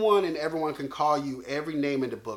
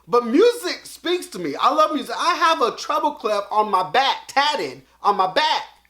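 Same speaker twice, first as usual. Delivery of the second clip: shouting out, very high-pitched and very loud; 9 semitones higher, 8 dB louder than usual. Talking about loving music and a back tattoo: yelling. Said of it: "I don't know why I'm starting yelling now".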